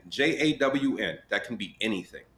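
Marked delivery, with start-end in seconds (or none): 0.1-1.2 J A W N, each letter said slowly and clearly; épelle J A W N lentement, lettre par lettre; spelled out slowly. Shown as a demonstration. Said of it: "A John can be anything".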